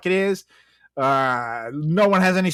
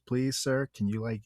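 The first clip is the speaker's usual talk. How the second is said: mock pleading; 3 semitones lower, 7 dB quieter than usual. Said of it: "she's trying to watch".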